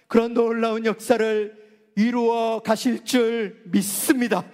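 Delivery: normal talking voice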